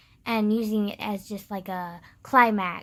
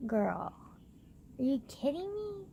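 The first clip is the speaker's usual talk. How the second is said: incredulous; 3 semitones higher, 7 dB quieter than usual. Retold or imitated. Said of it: "I'm just like".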